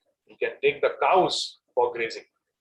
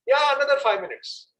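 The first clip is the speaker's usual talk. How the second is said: put-on child stalling again; 12 semitones higher than usual. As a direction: stretch the yeah to buy time. Child answering parents again.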